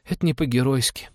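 put-on high child voice, mildly disdainful; pooh-pooh it like a small boy; scornful little boy. A narrator's reading. Boy judges pilot unheroic, mildly scornful high voice. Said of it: "презрительно протянул мальчишка".

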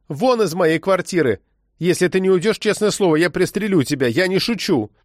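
high-pitched, frightened threat; forced confidence. A narrator's reading. Frightened woman threatens the agent with a pistol, feigning confidence. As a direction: try to sound sure while afraid. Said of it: "пыталась придать уверенность своему голосу".

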